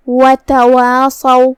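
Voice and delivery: وَتَوَاصَوْا slowed, the long ا after و kept light and thin; light madd. Shown as a demonstration. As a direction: say وَتَوَاصَوْا slowly with a light, unheavy alif. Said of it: "مد الف کو ترقیق سے ادا کرتے ہیں". (وَتَوَاصَوْا میں مد الف ہلکی آواز میں)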